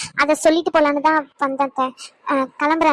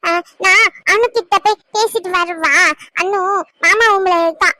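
put-on a lightly higher little boy asking gently; child voice; 4 semitones higher than usual. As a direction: play a small boy worried for grandma. Child Roshan voiced by adult.

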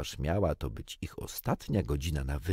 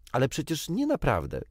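anxious; 8 semitones higher than usual. A narrator's reading. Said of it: "zapytał z niepokojem".

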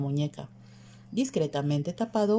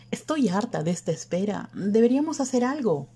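fed up, pitch climbing high; annoyed exclamation; 6 semitones higher than usual. A narrator's reading. Mercedes, sick of waiting, urging her friends to act, annoyed. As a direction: exclaim in rising exasperation. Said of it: "exclamó Mercedes, contrariada".

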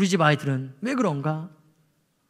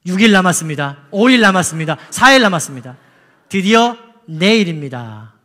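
each day read louder and more urgent; mounting countdown; 5 dB louder than usual. Retold or imitated. Read to the congregation as a rising countdown. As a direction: count down the days louder and louder, slowing on the last. Escalating countdown texts from deaconess.

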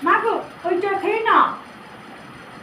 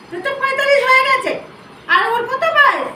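scolding outburst; 4 semitones higher than usual. Acted. Goddess scolding man about young girl.

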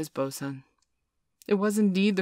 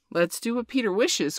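higher, eager agreement; eager cry; 6 semitones higher than usual. A narrator's reading. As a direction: cry out keenly. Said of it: "cried the boys".

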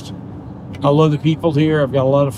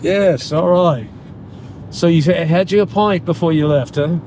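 Irish accent; 2 semitones higher than usual. Shown as a demonstration. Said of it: "English, Scottish, and Irish get mixed up".

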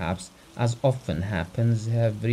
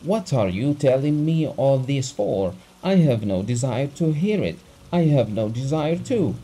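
rude clipped anger; 3 semitones higher, 4 dB louder than usual. Acted. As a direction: rap out each word rudely. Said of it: "rudely rapping out each word".

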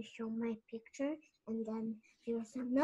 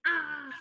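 louder "ah" of a scream; mock scream; 4 semitones higher, 7 dB louder than usual. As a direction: act out a story scream, loud. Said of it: "he was gonna scream".

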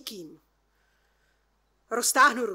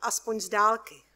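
ordinary delivery, nothing marked

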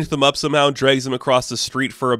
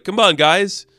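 hyped-up rallying; 4 semitones higher than usual. Retold or imitated. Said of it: "But Tyr's like".

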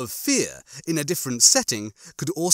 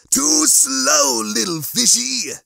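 cocky cat character, rising high on the tease; playful chiding; 8 semitones higher, 4 dB louder, slower than usual. A narrator's reading. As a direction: chide your prey in a teasing singsong. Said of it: "he chided his goldfish sandwich".

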